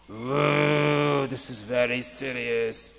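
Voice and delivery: low, soft, heavy whoa; alarmed king. Acted. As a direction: let the weight sink in slowly. King reacts to the news.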